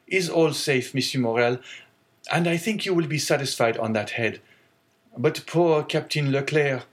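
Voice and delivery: reassure, then sink into sorrow; young sailor, grieving. Acted. Sailor tells the owner the cargo is safe, sorrowful.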